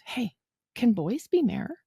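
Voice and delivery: slow, lightly imitated child's question; a hint of a curious kid; little boy asking. Voices a small boy's question.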